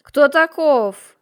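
loud, slow furious bark; full-voice bark. A narrator's reading. Margrave barking at the lying townsman, furious full-voice bark. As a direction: roar it out at full voice. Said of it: "рявкнул в полный голос".

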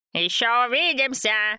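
bright, high cheerful call; cheerful shout. A narrator's reading. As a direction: call it out happily after her. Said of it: "весело проорал ей вслед Антон".

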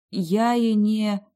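trailing slow, then cut off; cut off mid word. Acted. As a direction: stop short mid-phrase. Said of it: "оборвала фразу на полуслове".

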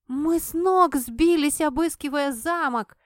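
громко и выше, с нажимом; отчитывает пьяного фамильяра; грозно. A narrator's reading. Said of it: "заявила грозно". (грозное заявление)

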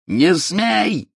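high shrieking snap. A narrator's reading. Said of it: "взвизгнул Снег".

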